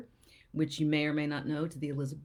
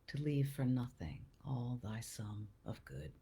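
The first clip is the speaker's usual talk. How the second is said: sonnet recital. Acted. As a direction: recite it earnestly, phrase by phrase. Formal reading of the sonnet.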